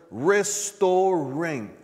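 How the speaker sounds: "restoring" stretched out, each syllable weighted; emphasis on RESTORING. Shown as a demonstration. Preacher underlining a key word for the congregation, "restoring" drawn out emphatically. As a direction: stress "restoring" slowly and deliberately. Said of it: "let me emphasize the word".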